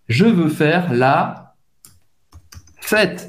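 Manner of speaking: slow French: "Je veux faire la fête"; French phrase, slowly. Shown as a demonstration. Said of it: "O que você queria dizer é". (francês lento e claro)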